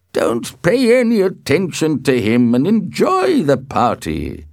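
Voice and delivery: loud, high, insistent command; authoritative host laying down the rule; firm order. A narrator's reading. Uncle overrules an angry nephew.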